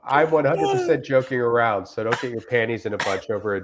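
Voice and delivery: straight-faced reading of an absurd review; dry earnest reviewer voice; deadpan review reading. Acted. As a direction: read it like a sincere customer, totally deadpan. Reads Yelp review aloud.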